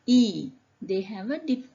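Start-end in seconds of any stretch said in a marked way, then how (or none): 0.1-0.5 "E" said loudly as a long ee; contrasting E sound. Shown as a demonstration. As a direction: hold up "E" as the sound not used. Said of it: "they don't pronounce as".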